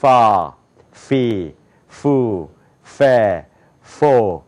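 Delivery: 파, 피, 푸, 페, 포 as F, lip bitten; English F. Shown as a demonstration. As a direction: bite the lip for 파, 피, 푸, 페, 포, each falling. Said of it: "입술을 깨문 건".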